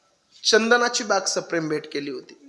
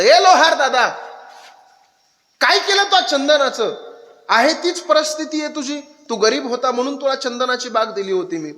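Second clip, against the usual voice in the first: lightly voiced king; 5 semitones higher than usual. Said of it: "राजेसाहेब आले आणि लोहाराला सांगितलं".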